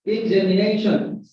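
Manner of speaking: "Examination" with main stress on NA; examiNAtion, said as a teacher's model; stress on fourth syllable. Shown as a demonstration. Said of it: "the primary stress is on fourth syllable".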